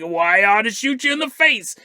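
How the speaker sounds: lightly imitated cartoon gunslinger threat; mock threat as a cartoon cowboy; Yosemite Sam. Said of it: "Oh, it's Yosemite Sam".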